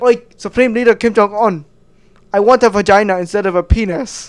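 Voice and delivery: loud mock-naive request to a dictator; mock plea. Citizen loudly asks Kim Jong-un for surgery. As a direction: call out boldly to the Supreme Leader. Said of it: "went up to Kim Jong-un and said".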